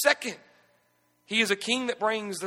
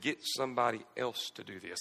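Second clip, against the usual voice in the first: much softer, hushed aside; whispered advice; 10 semitones lower, 10 dB quieter than usual. Retold or imitated. God whispering to the pastor during furniture assembly, hushed. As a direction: murmur it like a secret. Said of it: "God whispered into my ear".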